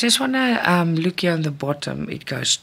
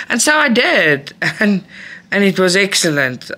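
laughing delight; 4 semitones higher, 5 dB louder than usual. Real, not acted. Delighted about stitching all day.

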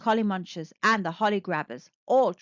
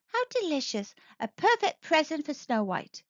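higher, delighted little robot; bright gentle robot voice; 5 semitones higher than usual. Acted. Box thinking aloud.

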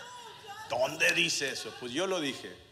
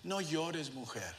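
soft, tender, fading quietly; gentle words; 6 dB quieter, slower than usual. Retold or imitated. Jesus to the grieving widow, soft and tender. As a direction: comfort her softly. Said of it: "Le dice".

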